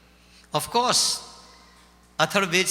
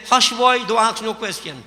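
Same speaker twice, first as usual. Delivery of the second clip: grandmother hushing; 3 semitones higher, 4 dB louder than usual. Acted. Grandmother hushes child.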